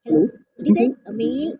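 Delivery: speaker's male voice filter; male voice changer effect. Shown as a demonstration. Showing the speaker's male voice mode, voice changer male voice. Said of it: "ഇതൊരു മെയിലിൻ്റെ ശബ്ദമാണ്".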